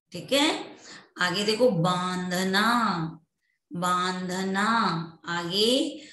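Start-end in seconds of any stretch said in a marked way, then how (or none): 1.7-4.7 बांधना drawn out with nasal first "aa"; nasalized vowel demo. Shown as a demonstration. Teacher models next example, बांधना with nasal vowel. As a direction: send the first vowel of बांधना through the nose. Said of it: "जो नाक के द्वारा बोले जाते".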